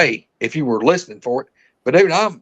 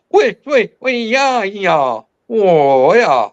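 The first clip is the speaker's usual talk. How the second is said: imitated second creature; 3 semitones higher, 3 dB louder, much slower than usual. Hunter voicing the other creature answering back. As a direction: answer back fast in a strange tongue. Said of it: "the other one just nearly instantly would go".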